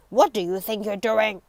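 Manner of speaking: an angry man roars at Mister Good; loud angry demand; thundering. Acted. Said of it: "he thundered".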